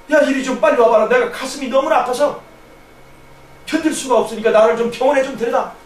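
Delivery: lightly acted father calling his son for help; urgent call. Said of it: "막 다급하게 저를 부르는 거예요".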